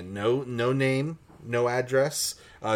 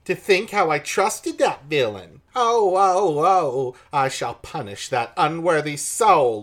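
loud, higher melodramatic lament; hammed-up theatrical despair; devastated actress; 5 semitones higher, 7 dB louder than usual. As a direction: wail it like a wronged stage diva. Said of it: "Did I change her voice?".

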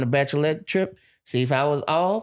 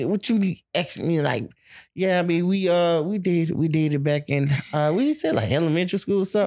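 voiced lines pitched higher, quick at the end; mock quarrel; 4 semitones higher than usual. Host acting out the couple's argument about the ex, higher voiced lines.

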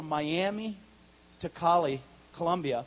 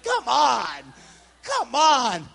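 urging call; 4 semitones higher, 9 dB louder, much slower than usual. Real, not acted. Preacher urges congregation.

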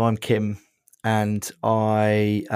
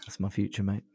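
whispered joke; 9 dB quieter than usual. Real, not acted. Joking reply.

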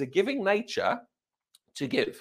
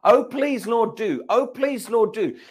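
higher-pitched mock pleading to the Lord; begging prayer; 5 semitones higher, 4 dB louder, slower than usual. Preacher imitating believers begging God, mock pleading. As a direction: beg repetitively, pitched up. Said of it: "begging and begging and begging".

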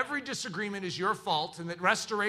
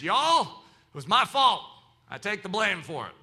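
put-on Southern accent; 4 dB louder than usual. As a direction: own up with a touch of Southern accent. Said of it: "That was my southern accent".

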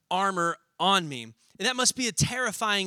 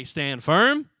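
louder rallying call; call and response; 3 semitones lower, 5 dB louder than usual. Shown as a demonstration. Preacher calling the congregation to repeat stand firm. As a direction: punch it out for the room to repeat. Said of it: "Somebody say".

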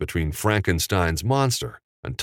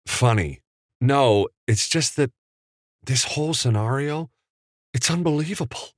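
put-on higher, amazed young man; lightly voiced eager Evan; 7 semitones higher than usual. A narrator's reading. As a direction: marvel at it, half to yourself.

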